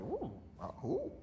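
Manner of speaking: puzzled surprise. Retold or imitated. Rereading own old essay.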